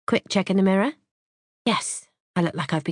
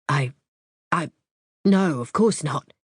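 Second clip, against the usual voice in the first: bleating denial. A narrator's reading. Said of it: "he bleats".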